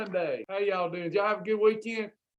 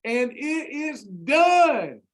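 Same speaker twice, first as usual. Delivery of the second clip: slow, then shouted at the end; building preacher's shout; 3 dB louder, much slower than usual. Real, not acted. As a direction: hammer home the last words slowly and loud. Preaching the climax of his plan.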